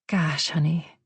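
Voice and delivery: whispered dismay. A narrator's reading. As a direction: breathe it out in a whisper. Lorna reacting on phone.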